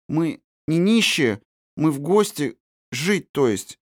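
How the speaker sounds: put-on a shy child murmuring an apology; embarrassed little girl. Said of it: "смущённо проронила".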